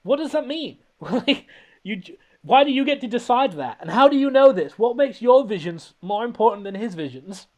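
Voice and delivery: high, loud incredulous rant; exasperated bafflement. Real, not acted. Arguing with the character about her visions, exasperated bafflement. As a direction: fire off baffled questions, voice climbing. Ranting at baffling movie line.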